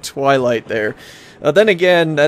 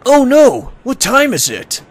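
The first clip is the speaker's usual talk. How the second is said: high, hammed-up alarm; higher-pitched, mock-startled outburst; startled panic; 11 semitones higher, 4 dB louder than usual. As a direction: play waking up in a mock panic. Acting out character waking late.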